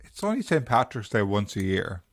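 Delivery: cheeks stuffed with food; mouth full. Real, not acted. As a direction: talk round a mouthful. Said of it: "He's like a hamster full of food".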